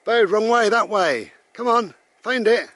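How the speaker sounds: loud, high call to the dog. Real, not acted. Calling to his dog.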